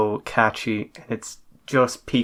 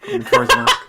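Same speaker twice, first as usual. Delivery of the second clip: squeaky high voice; 6 dB louder, faster than usual. Pretend.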